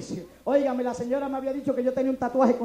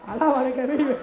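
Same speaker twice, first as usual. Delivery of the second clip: laughing praise; 5 dB louder than usual. Real, not acted. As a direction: praise through a chuckle.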